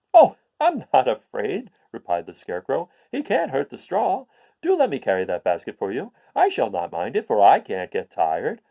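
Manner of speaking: lightly voiced eager straw man; cheerful scarecrow. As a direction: reassure her brightly.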